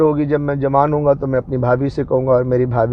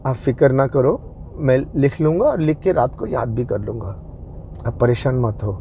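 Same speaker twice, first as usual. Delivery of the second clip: lovingly reassuring; 3 semitones lower, 5 dB quieter than usual. Retold or imitated. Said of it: "बड़े प्यार से बोला".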